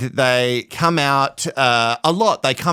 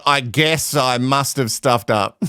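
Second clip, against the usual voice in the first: slow mock apology, laughing; 4 semitones lower, slower than usual. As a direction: laugh while parroting his excuse. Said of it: "taking ownership without really taking ownership".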